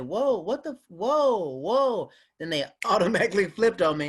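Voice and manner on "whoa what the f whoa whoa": high, louder startled whoas; Caribbean room crowd reacting, loud and high; shocked crowd. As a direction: caught off guard and offended. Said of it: "they're just like".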